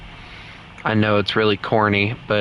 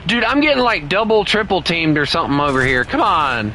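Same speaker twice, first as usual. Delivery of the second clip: high, frantic rush of words; panicked complaint, speeding up; frantic gamer panic; 3 semitones higher than usual. Real, not acted. Ganged up on in game.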